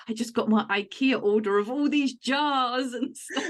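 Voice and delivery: playfully excited retelling; mock excitement. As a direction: gush it like a friend, breaking into a laugh. Friend's excited message, retold.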